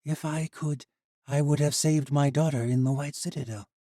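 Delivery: tearful regret. Acted. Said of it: "Tears filled her eyes".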